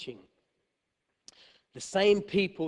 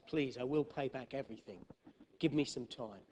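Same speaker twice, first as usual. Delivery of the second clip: much softer desperate plea; hushed plea for more time; soft pleading; 2 semitones lower, 10 dB quieter than usual. Pretend. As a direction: beg the bank gently. Pleading with the bank.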